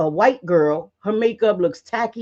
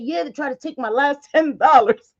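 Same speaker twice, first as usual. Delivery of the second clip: deadpan insistence; 6 semitones higher, 3 dB louder than usual. Retold or imitated. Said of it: "I said".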